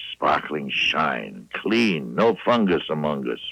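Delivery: upbeat pitchman reading a sponsor spot; host slipping into a commercial pitch. Acted. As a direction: sell the cleaner like a live radio ad. Live ad read for Dow.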